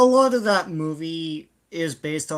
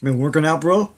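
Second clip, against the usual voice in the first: louder gym bro voice; bro talk; 5 dB louder than usual. Retold or imitated. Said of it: "that's my bro talk".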